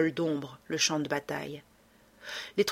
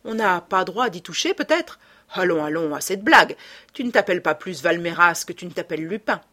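Sholmès, scornful and accusing, rising to a louder finish; 5 dB louder than usual. Acted. Sholmès exposes Lupin's false name, scornful and accusing. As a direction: jab each revelation at him like an accusation.

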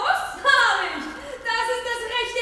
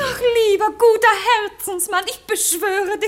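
louder, begging cry; louder desperate plea; loud pleading; 7 dB louder than usual. Acted. Wife begs husband.

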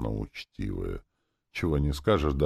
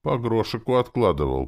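strained wheeze; 7 semitones higher, 5 dB louder than usual. A narrator's reading. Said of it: "просипел он с надрывом".

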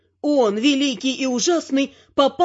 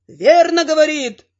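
louder, a crowd roaring approval; 6 dB louder than usual. A narrator's reading. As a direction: roar it out as the troll mob. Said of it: "взревел троллей народ". (громкий рёв толпы троллей)

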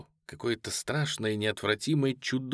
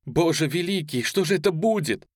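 higher, pleading cry of alarm; frightened exclamation; 8 semitones higher, 3 dB louder than usual. A narrator's reading. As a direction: cry out in fear. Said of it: "воскликнула рядом с ней молодая женщина". (испуганное восклицание)

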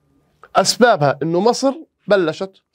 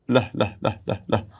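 mock dismay; 7 semitones lower, 5 dB quieter than usual. Teacher reacting to losses.

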